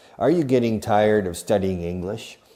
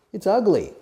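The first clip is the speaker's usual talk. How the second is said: 1 mock disgust; 11 semitones higher, 5 dB louder than usual.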